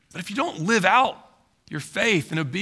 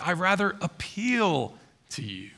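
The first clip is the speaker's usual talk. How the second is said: hushed appeal; 2 semitones lower, 6 dB quieter than usual. Retold or imitated. Preacher voices Paul's gentle appeal.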